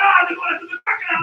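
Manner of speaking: loud, thrilled call; excited shout. Retold or imitated. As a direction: cry out at the chase. Voiced reaction to the crocodile.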